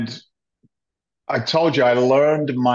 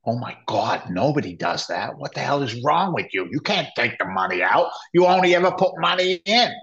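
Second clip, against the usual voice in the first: retold aghast protest, pitch jumping up at the end; mock disbelief; 3 semitones higher than usual. Official scolding a man cashing out his pension, mock disbelief. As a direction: act out someone scandalized by a bad idea. Retelling aghast reaction to withdrawal.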